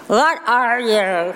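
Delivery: a slow, wondering exclamation from the frog; frog exclaiming. A narrator's reading. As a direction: let the frog exclaim in curiosity. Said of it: "the frog exclaimed".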